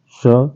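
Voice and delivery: स slowly with the tongue on the teeth; teeth-touch स, drawn out; dental स. Shown as a demonstration. Teacher comparing the three sibilants. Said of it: "तीनों को बारी बारी देखते हैं".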